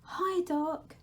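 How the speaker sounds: put-on high, bright child greeting; a small boy chirping hello; Laszlo's greeting. Little Laszlo greeting the Dark, high and eager.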